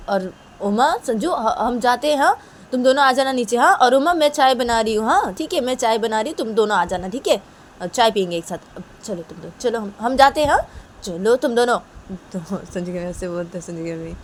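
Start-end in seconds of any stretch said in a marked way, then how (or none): 0.6-11.8 high, loud, over-cheery mother covering up; flustered mother. Acted. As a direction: call out to them insistently, pitched up high. Mother flustered, hurrying everyone out. (घबराई माँ की ऊँची, तेज़ आवाज़)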